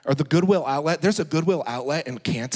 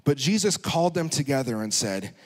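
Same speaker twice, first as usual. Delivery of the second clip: normal talking voice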